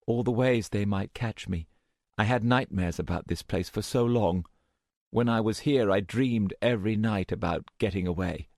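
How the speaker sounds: a hint of a haunted girl pouring out her fear; young woman, frightened. Anne voiced in the story.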